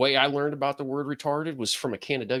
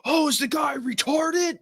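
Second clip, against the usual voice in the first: much higher, slow mock exclaim; imitating a TV host. Retelling a sports host's blunder, imitating his exclaim. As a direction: mimic the host blurting it out on air. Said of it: "and he said".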